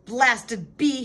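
storybook bellow. A narrator's reading. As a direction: bellow at the bee. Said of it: "he bellowed".

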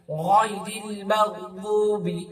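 slow, মাগদুবি with দ from the tongue side; dad sound. Shown as a demonstration. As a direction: say দু in মাগদুবি as দ, not দাল. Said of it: "দত কিন্তু direct দু পড়বেন না". (দ উচ্চারণ)

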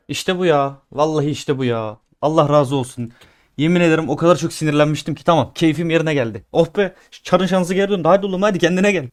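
real joy, loud and lifted; cheering the upgrade that finally landed; loud relieved celebration; elated relief. Real, not acted.

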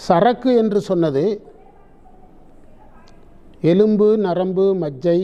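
measured dictation in formal Tamil, long pauses between phrases. Acted. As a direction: dictate the commentary phrase by phrase for people writing it down. Dictates the written commentary.

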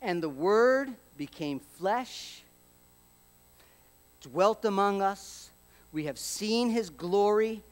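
slow, reverent reading; scripture reading. Acted. Preacher reading John to the congregation, slow and reverent. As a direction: read it slowly, letting each line breathe.

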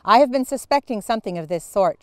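sharp, fast and loud; exclaiming. A narrator's reading. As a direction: snap it out in outrage. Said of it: "she exclaimed".

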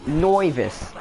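"novice" said as "noy-vis"; joke mispronunciation. Shown as a demonstration. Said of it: "did you not hear how I pronounced it".

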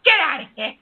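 real irritation, ordering someone off; angry outburst. Real, not acted. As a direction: throw the caller out, fed up. Kicking out a threatening caller.

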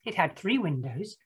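picture-book narration. Acted. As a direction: read it to small children, spacing out the count.

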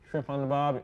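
lightly attempted Australian; mock Australian accent. Shown as a demonstration. Guest demonstrating Australian, light mock Australian accent. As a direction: try a casual Aussie accent. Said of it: "What does this one sound like?".

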